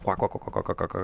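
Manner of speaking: breathy unvoiced quacking guitar noise; imitated guitar quack. Shown as a demonstration. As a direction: whisper the quacks like a cutting guitar. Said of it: "shut the guitar on and off".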